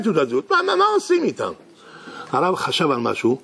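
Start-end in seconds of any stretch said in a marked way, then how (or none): 0.5-1.5 high baffled. Acted. Court baffled by two claims.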